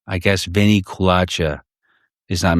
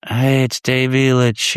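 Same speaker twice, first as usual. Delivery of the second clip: mock intro; 6 semitones higher, slower than usual. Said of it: "some people start mocking these people".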